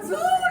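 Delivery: very high playful zoom noise; whoosh sound. Retold or imitated. Telling her dream of crossing mountains, a playful high whoosh. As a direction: zip the sound across the sky. Acting out flying across mountains.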